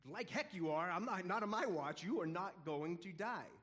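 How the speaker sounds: loud, forceful refusal; indignant protest. Retold or imitated. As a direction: protest hotly, as if blocking his way. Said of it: "And Peter's like".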